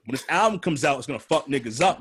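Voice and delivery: ordinary talk, nothing marked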